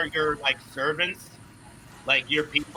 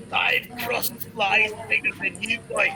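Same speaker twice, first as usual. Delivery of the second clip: a touch of dwarf bravado; 2 semitones higher than usual. Acted. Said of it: "he says".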